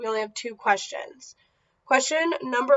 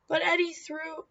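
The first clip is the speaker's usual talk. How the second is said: protesting; 5 semitones higher than usual. Acted. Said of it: "Carrie started to say".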